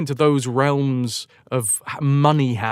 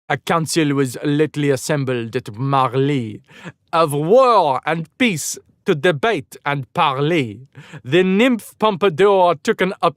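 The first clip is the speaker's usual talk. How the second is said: put-on a light, tentative French accent on the verse; reading an old verse in a faint French accent; half-hearted French accent. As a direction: try the poem in a French accent, then lose nerve. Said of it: "do I do this in a French accent?".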